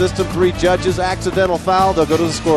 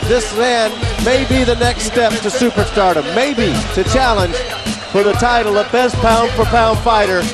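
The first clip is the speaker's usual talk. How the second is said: excited. Real, not acted. Hyped introduction of the headliner.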